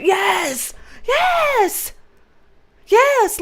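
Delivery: high, drawn-out squeals of yes; excited high cry; delighted exclaiming. Real, not acted. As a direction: squeal it in gleeful agreement. Delighted agreement about funny video.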